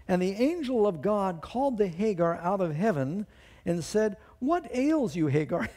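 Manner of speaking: angel calling out. Acted. Preacher reads angel calling from heaven.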